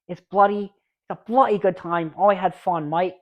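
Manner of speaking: put-on slipping into a British accent; a quick British accent on a cheerful line. Reviewer slips into British while praising the film, British accent. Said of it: "I didn't know why I went British there".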